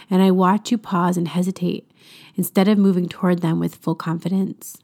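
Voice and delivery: calm, measured voice speaking as a loving Father; gentle devotional reading. Acted. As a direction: read it as God gently reassuring a child. Reads devotional as God speaking.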